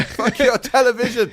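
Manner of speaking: high, slow mock wrestler shout; wrestler catchphrase. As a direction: bellow it like a hammy wrestler.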